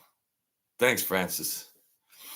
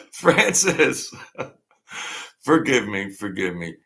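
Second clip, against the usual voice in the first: odd put-on voice. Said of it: "I don't know why I'm talking like that".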